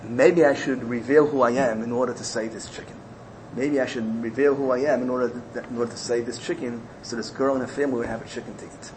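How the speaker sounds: low, soft musing; private, hushed deliberation; mumbling to himself. Retold or imitated. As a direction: think it over under your breath. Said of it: "starts mumbling to himself".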